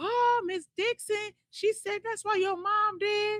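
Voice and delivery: put-on very high little-kid hollering. Retelling a classmate lying to the teacher: imitating a kid hollering. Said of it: "he lied and hollered out".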